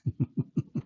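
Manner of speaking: quiet breathy chuckle; real chuckle. Real, not acted. Amused by his question to Muslims, a quiet chuckle. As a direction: chuckle softly to yourself.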